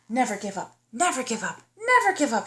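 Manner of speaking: rising self-encouragement; telling herself. Acted. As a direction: pump yourself up. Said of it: "she told herself".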